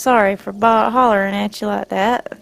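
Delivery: put-on southern accent. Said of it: "I can do his accent pretty good".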